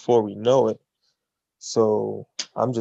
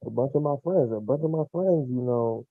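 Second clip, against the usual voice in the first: sounds muffled, like through a wall; 4 dB quieter than usual. Real, not acted. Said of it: "you sound muffled again".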